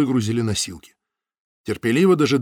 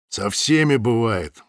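grumbling; slower than usual. Acted. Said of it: "буркнул Самойлов".

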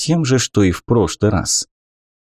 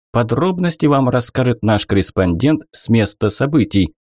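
cheerful news anchor; 3 semitones higher than usual. Acted. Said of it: "бодрым голосом сделали объявление".

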